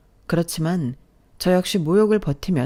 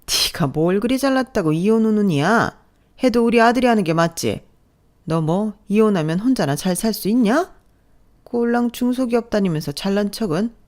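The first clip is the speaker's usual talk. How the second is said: higher-pitched, contemptuous nagging; scolding mother-in-law; 3 semitones higher than usual. Acted. Mother-in-law belittling her son's wife, sneering. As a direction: sneer down at your daughter-in-law.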